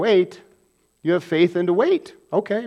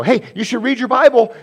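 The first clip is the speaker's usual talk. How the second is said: exhorting; 7 semitones higher, 5 dB louder than usual. Retold or imitated.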